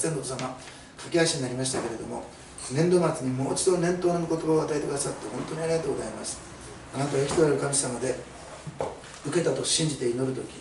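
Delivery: earnest prayer voice, steady and reverent; closing prayer. Acted. Pastor closes the sermon praying to God, reverent.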